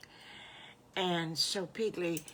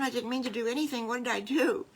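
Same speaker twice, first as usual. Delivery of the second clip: slightly higher, fast, anxious protest; lightly voiced worried little wolf; worried child character; 4 semitones higher, 5 dB louder, faster than usual. Flustered wolf child protests innocence.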